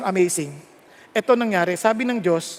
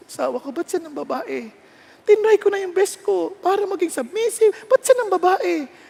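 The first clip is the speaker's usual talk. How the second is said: tag; 8 semitones higher than usual. Acted. Wife's tearful complaint to God acted.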